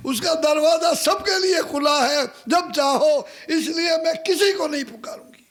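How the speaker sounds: preaching peak. Real, not acted. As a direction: call out God's open door. Preaching climax about God.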